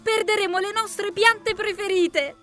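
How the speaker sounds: high-pitched ladybird wail; acted little-creature lament; whimpering. A narrator's reading. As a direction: whine on in a tiny high voice. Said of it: "piagnucolò la coccinella".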